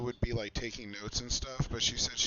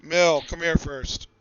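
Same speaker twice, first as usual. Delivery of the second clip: calling out; 3 semitones higher, 8 dB louder than usual. Real, not acted. Calling child over.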